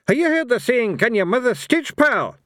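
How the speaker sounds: high, loud challenging yell; loud taunting yell at the gods. Acted. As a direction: bellow it across the hall like an old barbarian. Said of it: "he yelled".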